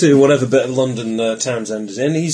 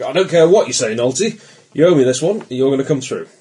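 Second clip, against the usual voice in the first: louder, forceful and annoyed; angry phone call; 2 semitones higher, 5 dB louder than usual. Acted. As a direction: lean on him hard over the phone. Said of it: "he was sort of angry".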